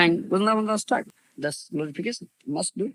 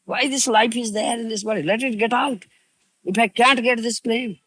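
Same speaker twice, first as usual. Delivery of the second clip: mildly raised, crying-out plea; imitating anguished lament; 4 semitones higher than usual. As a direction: lament it as a despairing devotee would. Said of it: "he cries like that".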